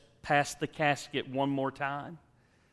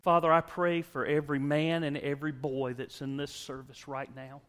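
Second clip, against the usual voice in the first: closing prayer; 2 semitones higher than usual. Acted.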